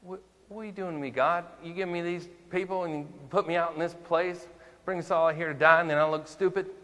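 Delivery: high, loud, rushed whine at God; Moses' frantic complaint. Retold or imitated. Moses complaining to God about the people, high frantic whine. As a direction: wail it up high like a cornered leader. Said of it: "What does Moses always want to do".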